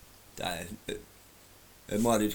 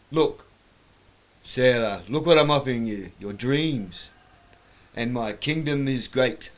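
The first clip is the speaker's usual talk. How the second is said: hammy, louder Goblin King plea; bad acting; 2 semitones higher, 5 dB louder than usual. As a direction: overplay the tempting offer. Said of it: "because I'm a terrible actor".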